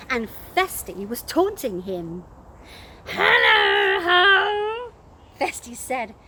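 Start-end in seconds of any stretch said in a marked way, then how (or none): 3.1-4.9 louder, odd put-on gruff call; strange gruff voice. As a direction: disguise the voice as a doctor. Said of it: "in a strange, gruff voice".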